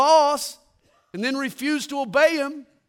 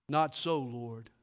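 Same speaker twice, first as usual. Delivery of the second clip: quiet echo of Peter; 9 semitones lower, 8 dB quieter, slower than usual. Retold or imitated. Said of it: "we have echoed Peter's reply".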